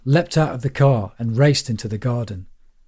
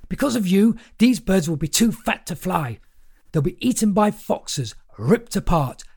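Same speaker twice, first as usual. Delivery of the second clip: manic rant; 6 semitones higher than usual. A narrator's reading. Maniac in the pond scolding children in a high, frantic pitch. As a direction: preach doom at them in a raised, wild pitch. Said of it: "a half-naked maniac shouting at children".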